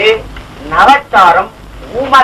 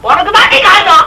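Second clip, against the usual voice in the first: tearful accusation; 7 semitones higher than usual. Acted. Tearful accusing quarrel between couple.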